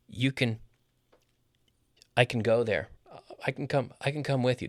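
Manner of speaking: CAN weak and brief, like "kn"; reduced CAN. Shown as a demonstration. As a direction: slide over CAN to the verb. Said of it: "This is real, this is real English".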